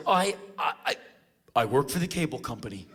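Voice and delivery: halting, repeated false starts, then the claim; retold stammering excuse. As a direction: fumble for a lie. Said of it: "he kinda ran out of bullshit".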